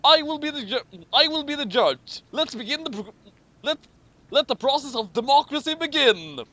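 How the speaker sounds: high-pitched mock shout. Obama opens the chess duel with a mock high shout. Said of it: "Obama shouted".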